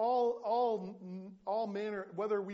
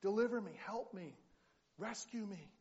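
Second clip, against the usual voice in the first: mild, higher-pitched plea to God; acted crying out; 4 semitones higher than usual. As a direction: plead in short bursts, lightly acted. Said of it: "and he cries out".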